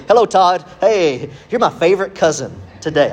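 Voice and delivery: mock-friendly greeting. Preacher pretends to flatter his now massive cousin, mock-friendly. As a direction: greet the big cousin like his best pal.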